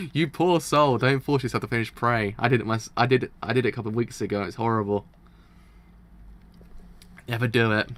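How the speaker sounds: loud, insistent pleading to the viewer; emphatic warning. Real, not acted. Gamer begging viewers not to finish Prey, loud and emphatic. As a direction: urge them hard, never do it. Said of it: "warns viewers off the game's ending".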